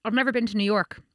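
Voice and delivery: talking while eating; words round a bite of food; mouth full. Real, not acted. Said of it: "I'm eating".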